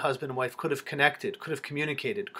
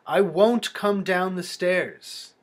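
pleading; 4 semitones higher, slower than usual. Acted. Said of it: "He says, pleading".

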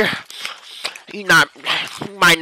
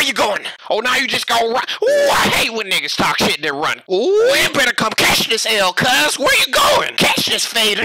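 taunting shout; 3 semitones higher than usual. Acted. Taunting a fleeing opponent.

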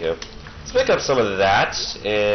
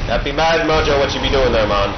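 lightly put-on island-mystic voice, a bit higher and louder; mock voodoo priest; 3 semitones higher, 4 dB louder than usual. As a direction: ham up a spooky witch doctor. Voodoo-style talk about mojo.

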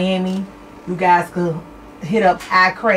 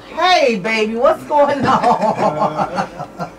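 excited greeting; much slower than usual. Real, not acted. Greeting caller, drawn out.

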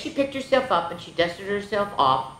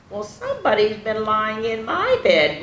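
lightly groaning Mama; a touch of a put-out groan; mild groan; 5 semitones higher than usual. Acted. Mama finding her bed used, mild groan. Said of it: "groaned Mama".

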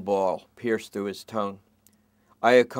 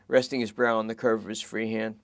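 fast, raised rambling worry; worried junkie; 3 semitones higher, 5 dB louder than usual. Acted. Suspect fretting to detectives about his girlfriend, fast anxious. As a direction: babble it out anxiously.

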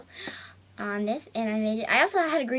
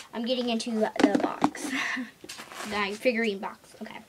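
whispering; 3 dB quieter than usual. Real, not acted. Whispering aside while digging.

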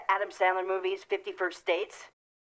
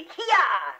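sharp shouted grunt on attack; tennis grunt; 2 semitones higher, 4 dB louder than usual. Acted. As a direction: grunt it out like a big swing. Wife pounces in fight scene.

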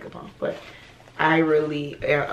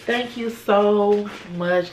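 heartfelt thanks; 4 semitones higher, much slower than usual. Real, not acted. Drawn-out thanks.

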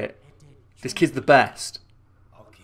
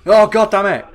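loud, higher exasperated groan of a curse; frustrated curse; 9 semitones higher, 9 dB louder than usual. Real, not acted. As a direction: let the annoyance burst out. Gets hit in game.

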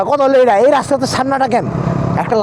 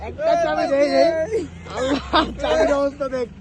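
crying lament; 4 semitones higher, 3 dB quieter than usual. Real, not acted. Rider lamenting the lost bike key to his friend, tearful. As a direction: moan it as if close to tears.

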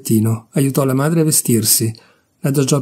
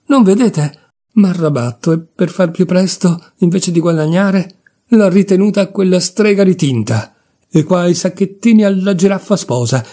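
higher, raised, exasperated rant; exasperated outburst; 5 semitones higher than usual. Acted. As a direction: vent everything at once. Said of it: "Alla fine proruppe".

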